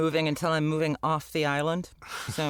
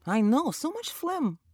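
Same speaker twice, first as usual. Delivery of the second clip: put-on Yiddish accent. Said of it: "like I'm Jewish doing Yiddish".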